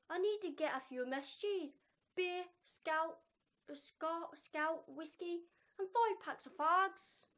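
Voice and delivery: put-on Irish accent, rough and unsure; reading an example line in mock Irish; attempted Irish accent. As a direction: have a shaky go at an Irish accent. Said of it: "What is this accent".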